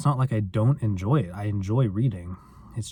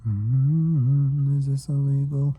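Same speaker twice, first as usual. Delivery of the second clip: put-on higher-pitched playful Australian accent; 4 semitones higher, 4 dB louder, much slower than usual. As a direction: tease it in a mock Australian accent. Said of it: "It's illegal of me to do an Australian accent".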